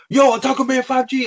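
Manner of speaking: high, slow holler imitating a villager; playful drawn-out mock yell; mock tiger yell. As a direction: call out high across the village. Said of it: "He's, like, yelling at me".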